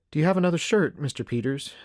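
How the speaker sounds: lightly voiced woman, starting high; a hint of a practical mother; frontier mother. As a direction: ask helpfully as the hostess. Voicing Missus McNeil's question.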